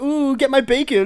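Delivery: high, slow piggy squeal; squeaky piggy voice. Pretend. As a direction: coo it like a pig. Piggy skit continues.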